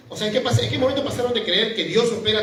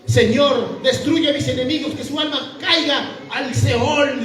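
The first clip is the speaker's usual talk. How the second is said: dramatic psalm reading; 5 semitones higher, slower than usual. Acted. Quoting an imprecatory psalm aloud.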